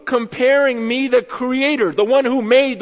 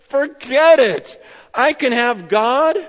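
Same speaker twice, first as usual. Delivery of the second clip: drawn-out joyful declaration; stretched-out excited cry; slow, emphatic mock shout; slower than usual. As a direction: announce it slowly, like you've found the prize. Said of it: "jumps out of the tree and goes".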